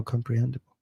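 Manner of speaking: "comprehensible" said as "comprehendible", with a d; corrected reading. Real, not acted. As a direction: end "comprehensible" in "-hen-dible", not "-sible". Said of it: "I read that wrong as well".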